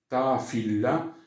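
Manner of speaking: "ta fila" slow, each l sounded apart; dos lambdas separadas. Shown as a demonstration. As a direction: say fila with the double l split. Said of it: "se pronuncian como separadas". ("ta fila" despacio, separando las dos eles)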